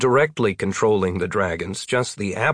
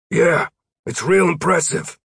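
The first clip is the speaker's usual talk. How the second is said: raised-pitch shouted reply; projected, higher-pitched answer; calling back; 8 semitones higher than usual. A narrator's reading. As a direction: call it back up to someone overhead. Roy calls back from the ground.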